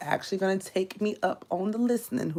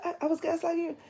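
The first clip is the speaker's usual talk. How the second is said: imitating surprised client; 11 semitones higher, 6 dB quieter, faster than usual. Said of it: "And she said".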